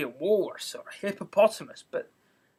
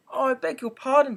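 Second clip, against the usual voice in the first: hasty cry; 8 semitones higher, 6 dB louder than usual. A narrator's reading. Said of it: "cried Alice hastily".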